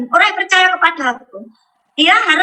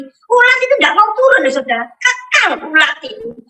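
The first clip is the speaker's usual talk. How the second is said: amazed; 5 semitones higher than usual. Real, not acted. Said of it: "Tapi heran saya".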